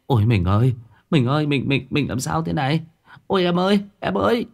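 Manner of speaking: anguished wailing. Acted. Husband finds wife unconscious.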